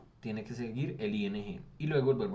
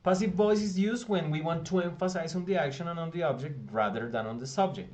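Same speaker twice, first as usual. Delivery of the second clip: reading the English definition aloud; 4 semitones higher than usual. Shown as a demonstration. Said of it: "miren, dice acá".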